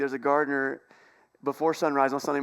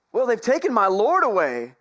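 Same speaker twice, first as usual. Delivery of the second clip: anguished plea; 5 semitones higher, 5 dB louder than usual. Retold or imitated. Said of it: "she said".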